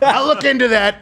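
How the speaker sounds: laughing mimicry. Host laughing as he quotes the president. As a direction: laugh while imitating the brush-off.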